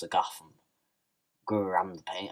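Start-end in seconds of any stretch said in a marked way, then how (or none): 1.5-2.3 mock Penguin voice. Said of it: "what kind of Penguin accent that is".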